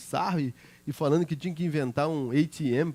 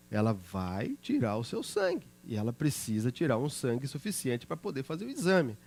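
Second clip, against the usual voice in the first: tender reassurance. Retold or imitated. Father comforting scared daughter.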